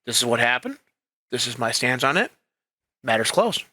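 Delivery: low, even statement with clear stops; matter-of-fact. Shown as a demonstration. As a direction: state it plainly and close the subject. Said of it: "staying matter of fact".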